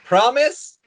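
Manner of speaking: high hopeful little creature; lion cub voice. Acted. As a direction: ask it like an eager cub. Bims the pet asks.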